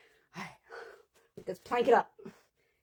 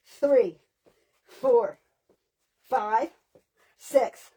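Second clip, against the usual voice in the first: loud coach count, each number punched; counting reps; 3 semitones higher, 5 dB louder, much slower than usual. Acted. Coach counting plank reps loudly for the class. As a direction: drive them through the set, number by number.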